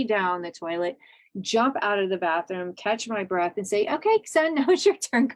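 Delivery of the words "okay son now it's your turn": higher, laughing sing-song handoff; teasing mom to son. Retold or imitated. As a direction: chuckle as you hand the chore over. Mom handing son the cleaning job.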